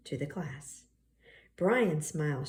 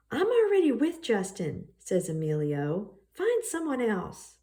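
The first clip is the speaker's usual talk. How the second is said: voiced Emilio; 4 semitones higher than usual. Emilio rejecting Brian.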